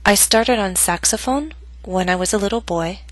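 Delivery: put-on "boy" falls, but not to the lowest pitch; unfinished statement. Shown as a demonstration. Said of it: "my voice went down on boy, but not to its lowest pitch".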